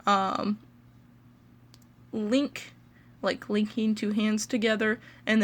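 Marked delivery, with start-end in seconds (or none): 2.1-2.7 "link" set apart for a learner; syllable demonstration. Shown as a demonstration. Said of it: "important to note that with Lincoln".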